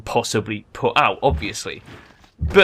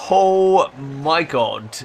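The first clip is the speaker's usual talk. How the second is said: very slow, drawn-out disbelief; amazed; 4 semitones higher, 4 dB louder, much slower than usual. Real, not acted. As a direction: savour the shock slowly. Amazed at the result.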